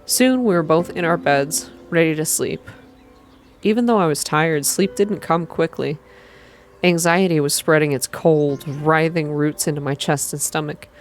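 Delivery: even, unhurried visual novel reading; calm, slow narration. A narrator's reading. Streamer reading a visual novel aloud, calm and slow. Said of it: "calm, slow".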